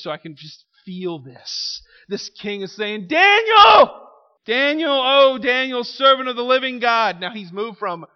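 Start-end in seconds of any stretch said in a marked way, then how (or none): 3.1-7.2 crying out Daniel's name in anguish, loud and high. Retold or imitated. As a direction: call into the den, desperate and loud. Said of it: "he cried out in a tone of anguish".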